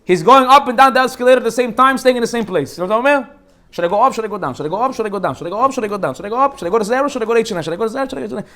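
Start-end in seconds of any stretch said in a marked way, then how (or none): 3.7-8.4 lightly acted back-and-forth dithering; indecisive ditherer. Rabbi mimicking a man stuck on the escalator, mildly dithering. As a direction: up on one choice, down on the next. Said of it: "Habibi is like this".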